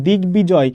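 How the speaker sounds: দিগ্বিজয় with a clear b after the g; both গ and ব sounded. Shown as a demonstration. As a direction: say দিগ্বিজয় as "dig-bijoy". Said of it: "গয়ের উচ্চারণও হবে".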